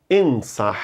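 Ensah ending on a strong breathy H. Shown as a demonstration. Teacher demonstrating the airy H in Ensah. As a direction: push lots of air on the H of Ensah. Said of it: "solte bastante ar".

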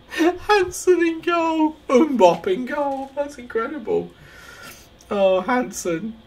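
very high, slow, squealed words; hysterical disbelief. Real, not acted. Gamer marvelling at Hansen in goal, squealing in hysterical disbelief. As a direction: squeal it out, barely holding together.

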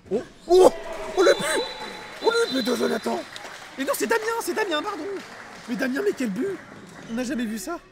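screaming goal call, very high and loud; excited sports commentary. Real, not acted. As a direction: erupt over the goal at full voice. Goal scored, commentator erupts.

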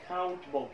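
Countable with no vowel between t and b; T straight into B. Shown as a demonstration. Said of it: "أنطلق من ال T إلى حرف ال B مباشرة". (نطق Countable بانتقال مباشر من T إلى B)

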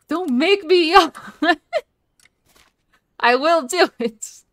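hammed-up playful threat; mock threat. Real, not acted.

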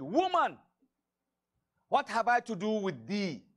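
stern rebuke. Acted. Jesus rebuking his mother at the wedding, loud and stern. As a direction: cut her off sharply with Woman.

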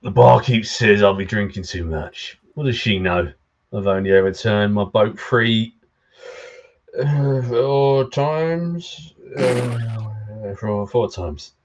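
lightly voiced pirate accent; a hint of tipsy pirate accent. Drunk fisherman complaining about the barkeep, light pirate accent. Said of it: "you gotta do that pirate accent".

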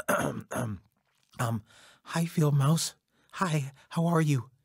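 shy, hesitant hello; nervous stammer. Acted. Nervous beaver greets Field Mouse.

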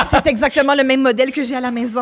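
loud, high delighted exclamation; real giddy excitement; excited outburst. Real, not acted. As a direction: blurt it out after a shriek of laughter. Delighted at unwrapped toy.

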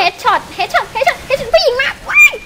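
high, loud, drawn-out excited cries; excited squeal. Real, not acted. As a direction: squeal as the zombies rush in. Zombies rushing her in game.

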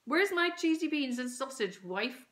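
dad bellowing for his dinner; calling from another room. A narrator's reading. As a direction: call it through the house. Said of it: "called Dad from the living room".

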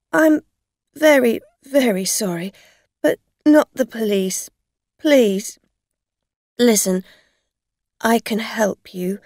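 loud, halting apology; frantic pleading. A narrator's reading. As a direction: beg urgently, in short bursts. Afraid driver begs, offers help.

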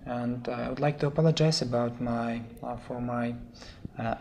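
hoarse, sore-throated voice. Real, not acted. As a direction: speak through a sore throat. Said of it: "I think, a sore throat".

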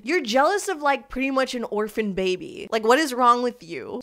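loud incredulous rant; outraged. Real, not acted. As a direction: scold her in disbelief.

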